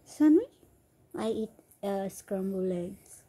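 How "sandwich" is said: surprised. Real, not acted. Surprised at husband's answer.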